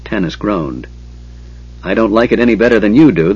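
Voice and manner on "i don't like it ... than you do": rushed, grumbling line; quick growl. Acted. Dwarf grumbling quickly about trusting the Kender. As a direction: get it out fast and grudging. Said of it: "the dwarf growled".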